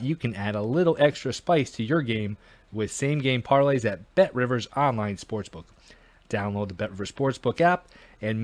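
upbeat sportsbook ad read. Acted. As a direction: sell it like a radio spot. Reads a sponsor ad.

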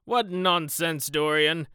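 loud, high, amused scoff; hearty, booming amusement; laughing dismissal. Acted. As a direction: brush it off with a laugh, drawn out slowly. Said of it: "laughed his companion".

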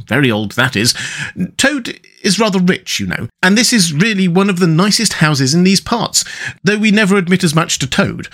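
chatty storybook rat; good-natured rat. Acted. Rat points out Toad's house.

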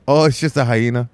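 lightly attempted African accent, offhand; terrible African accent. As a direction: casually imitate the driver in a poor African accent. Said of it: "I have a terrible accent".

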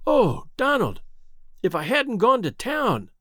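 high, overcome with feeling; emotional exclamation. A narrator's reading. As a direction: cry out to her brother. Sister overwhelmed, near tears.

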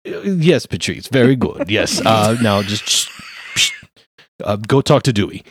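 a pompous high-voiced lawyer flattering a client; pompous gentleman. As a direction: gush like a fussy wizard lawyer in a top hat. Lawyer character continues.

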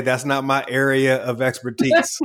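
slow, flat, teasing refusal; deadpan brush-off. Pretend. Turning down a Thursday meeting with a deadpan line. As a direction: drag it out as a dry joke. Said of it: "I'm just gonna say".

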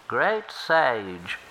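humble river turtle offering help. Acted. Turtle speaks again.

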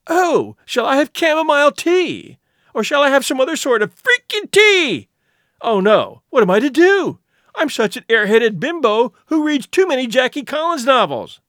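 mock a dithering airhead. The speaker mocking Maria's airhead heroine.

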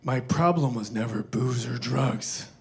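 lightly imitated slow, low movie-star voice; slow and low, a hint of an impression; Clint Eastwood. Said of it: "And he goes".

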